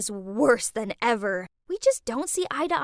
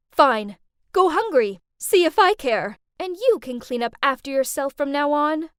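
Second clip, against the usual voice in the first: angry mom; 2 semitones higher, 5 dB louder than usual. Retold or imitated. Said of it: "Mom got up and said".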